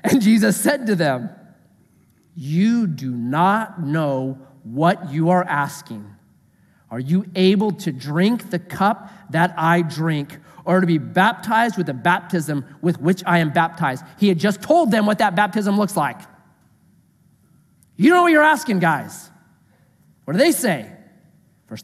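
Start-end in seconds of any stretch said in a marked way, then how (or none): 2.4-14.0 slow, lower, measured Bible reading; scripture reading. Acted. Jesus answering James and John, measured scripture reading. 18.0-19.3 high-pitched challenge, dropping on the last word; mock incredulous. Jesus challenging his disciples, mock incredulous. Casual paraphrase of Jesus' rebuke.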